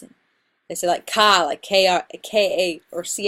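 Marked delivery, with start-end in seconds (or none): 1.1-1.4 "ka" punched louder, R dropped Boston-style; Boston "ka" with an open ah and no R; Boston accent. Shown as a demonstration. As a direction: hit "ka" like a Bostonian. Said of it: "Boston accent".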